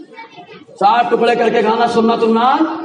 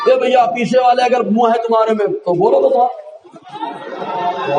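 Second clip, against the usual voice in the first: mock call to back rows. Shown as a demonstration. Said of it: "ऐसे".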